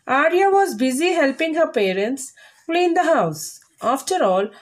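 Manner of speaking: measured textbook story reading for pupils; careful model reading. Shown as a demonstration. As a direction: read it properly, phrase by phrase. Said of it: "read properly, carefully".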